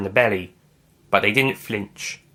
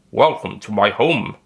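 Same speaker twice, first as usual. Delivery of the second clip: smiling welcome; 2 semitones lower than usual. Acted. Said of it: "the doctor said, smiling".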